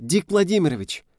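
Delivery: high squeaky call of his name; girl squeaking a name; squealing. A narrator's reading. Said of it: "запищала девушка".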